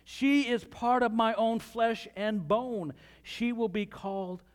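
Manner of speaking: excited exclamation. Acted. Preacher reading Adam's first words on seeing the woman, mildly excited. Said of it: "He's excited, right? Adam exclaimed".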